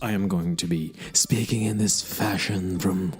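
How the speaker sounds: mock radio voice. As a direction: put on a deliberate radio voice, drawing out the phrases. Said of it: "This is my new radio voice".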